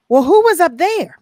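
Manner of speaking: high, loud quoted wonder; retold surprised question. Retold question about the singer.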